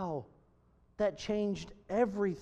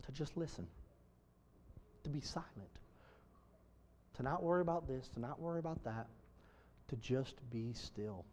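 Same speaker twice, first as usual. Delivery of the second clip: very soft, low, with long pauses; hushed, still; 3 semitones lower, 14 dB quieter than usual. Real, not acted. Preacher urging congregation to be still before God, hushed delivery. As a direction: settle the room into silence. Models being still and silent.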